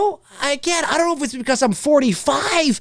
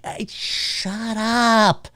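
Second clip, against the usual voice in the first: slow, drawn-out annoyed shut up; irritated shush; 4 dB quieter, much slower than usual. Retold or imitated. Annoyed moviegoer shushing a talker, slow and fed up. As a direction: hush the chatterers with contempt. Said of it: "irritate the hell out of you".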